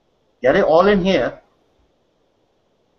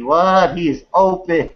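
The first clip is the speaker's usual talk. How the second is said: laughing; slower than usual. Real, not acted. Host reacts to baby on screen.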